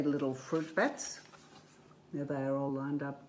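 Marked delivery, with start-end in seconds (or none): 0.0-1.2 lilting storybook read-aloud; gentle picture-book narration; reading to children. A narrator's reading.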